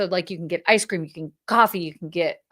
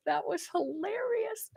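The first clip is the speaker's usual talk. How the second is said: laughing; 8 semitones higher, 10 dB quieter than usual. Real, not acted.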